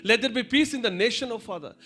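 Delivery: prayer. Real, not acted. Pastor leads closing prayer.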